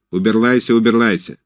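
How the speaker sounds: уберлайся with r softened to l. A narrator's reading. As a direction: repeat уберлайся lisping the r. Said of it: "своим картавым голосом".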